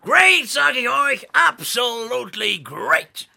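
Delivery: loud, brash American Santa shouting; Texan Santa loudly greeting Petra; American accent. Acted. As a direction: boom it like a Texan showman.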